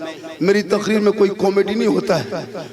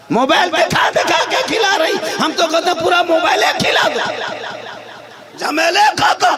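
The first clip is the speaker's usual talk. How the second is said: raised, exasperated mock advice; sarcastic preaching; 9 semitones higher than usual. Real, not acted. Preacher mocking phone-feeding mothers, sarcastic harangue. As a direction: throw up a sarcastic solution to the crowd.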